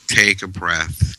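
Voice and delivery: slow, gentle "Take a breath" as real guidance; calm instruction. Shown as a demonstration. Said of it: "This is how you do it".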